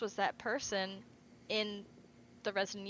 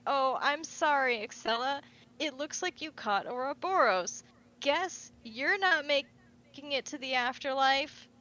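higher, hammed-up false apology; mock sympathy; 4 semitones higher, 5 dB louder than usual. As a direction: taunt a doomed partner with fake pity. Villain taunts his dying partner.

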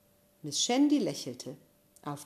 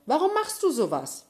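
high, loud outraged cry; loud shout; 9 semitones higher, 6 dB louder than usual. Acted. Miles yelling at Josh for the whole cafeteria, loud shout. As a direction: keep yelling it so everyone hears. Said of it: "rief Miles laut".

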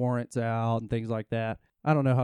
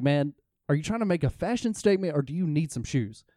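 mildly irritated, retold; a touch of annoyance in the question; lightly exasperated challenge to a picky beggar; 4 semitones higher than usual. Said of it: "I was just a little irritated".

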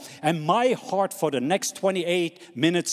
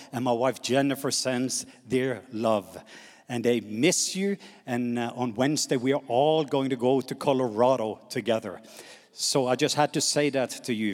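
softer, lower, affectionate aside; tender; 4 semitones lower, 3 dB quieter than usual. Real, not acted. Preacher passing on his wife's love to the church, tender. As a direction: pass the love on gently and low.

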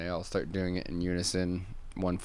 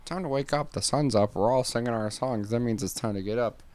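chipper bird; 4 semitones higher than usual. Acted. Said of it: "bird's like".

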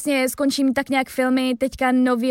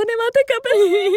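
nosy neighbour; 10 semitones higher, 5 dB louder, slower than usual. Retold or imitated. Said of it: "paní vedle nás byla jako".

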